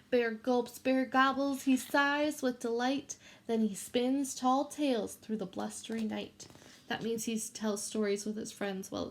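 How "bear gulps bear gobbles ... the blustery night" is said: put-on reading a picture book to children; gentle read-aloud for a class; story reading. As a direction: read it like storytime for little kids.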